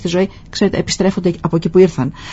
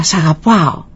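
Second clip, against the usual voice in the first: father's call, barely raised; mild retold shout. Father calls into the mountains for his son, mild shout. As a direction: call it out lightly to the hills. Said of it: "φώναξε δυνατά".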